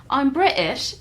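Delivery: mock English accent through laughter; a giggly put-on British accent. Shown as a demonstration. Host dared to do an English accent, laughing. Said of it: "Go on then".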